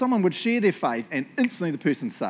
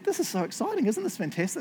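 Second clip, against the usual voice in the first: excited dad; 9 semitones higher than usual. Retold or imitated. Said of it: "And Dad said".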